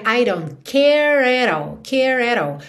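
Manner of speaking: "care at all" slowly linked, English r held in CARE; ideal linked pronunciation. Shown as a demonstration. Teacher showing learners the ideal linking, slow and clear. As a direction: model "care at all" slowly as one run. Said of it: "idealmente, você teria".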